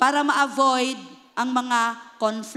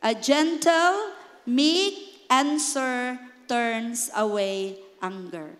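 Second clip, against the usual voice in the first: gentle reading; 3 semitones lower, much slower than usual. Shown as a demonstration. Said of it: "can we read this?".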